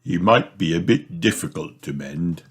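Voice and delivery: mildly doubtful tone. Acted. Father unsure he can fix the toy, mildly doubtful. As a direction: hedge it, not sure. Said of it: "says Daddy Pig doubtfully".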